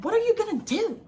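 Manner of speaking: high-pitched mock New York challenge; mimicked New York accent. Storyteller mimics the woman challenging her, mock New York accent. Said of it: "a, a accent".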